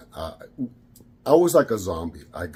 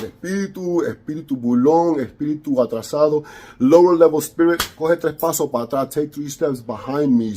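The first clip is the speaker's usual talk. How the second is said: commanding prayer. Acted. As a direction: order the spirit away with authority. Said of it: "I started praying".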